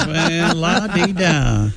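slow, drawn-out Southern drawl; mocking put-on Southern accent. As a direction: drawl it out, mock-Southern and snooty. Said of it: "speak in a Southern accent".

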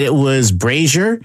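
brazier said as "BRAY-zher"; correct brazier. Shown as a demonstration. Co-host saying she would still check, brazier as "BRAY-zher". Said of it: "Even if I knew".

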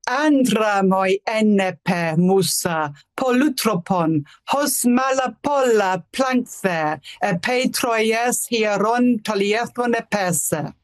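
slow, rhythmic recital in ancient Greek; dactylic verse. Shown as a demonstration. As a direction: chant the Greek hexameter, steady beat. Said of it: "So this is the beginning of the poem in Greek".

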